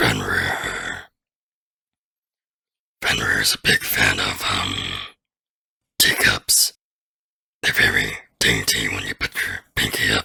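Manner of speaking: dainty voice, very low and creaky. Showing off different character voices, now doing the Fenrir voice. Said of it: "Then you got the Fenrir voice".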